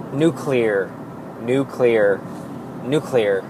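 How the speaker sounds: careful practice of "nuclear" as "NEW-klee-er"; practicing a word. Shown as a demonstration. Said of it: "I had to practice the word nuclear".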